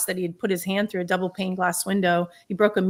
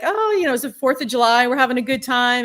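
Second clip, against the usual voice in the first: cheery retold banter; 4 semitones higher, 5 dB louder than usual.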